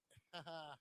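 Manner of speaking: quick chuckle to yourself; short chuckle. Real, not acted. Amused by the bike he shows.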